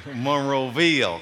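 drawn-out Alabama Monroeville, slow; slow mock Southern Alabama accent; imitating a Southern drawl. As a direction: mimic her Southern Alabama way of saying Monroeville. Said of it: "Do you talk like that?".

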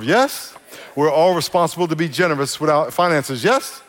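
each "yes?" pitched sharply up; rhetorical yes. Real, not acted. Preaching responsibilities, rising yes.

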